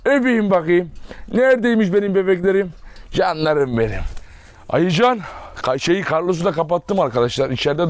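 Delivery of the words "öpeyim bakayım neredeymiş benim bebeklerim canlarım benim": fussing fondly over tiny babies. Real, not acted. Owner asking to kiss the puppies' noses, doting baby talk.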